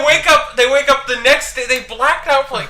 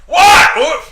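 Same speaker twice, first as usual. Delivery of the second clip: annoyed; 6 dB louder than usual. Acted. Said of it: "Eric said in an annoyed voice".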